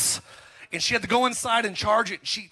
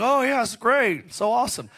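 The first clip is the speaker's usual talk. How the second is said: put-on awe that soon drops away; faked enthusiasm; 4 semitones higher than usual. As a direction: pretend to be impressed. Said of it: "I'm gonna have to lie again".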